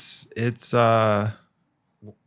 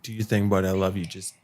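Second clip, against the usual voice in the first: reassuring; 3 semitones lower than usual. Retold or imitated. Tucking drunk friend in on couch.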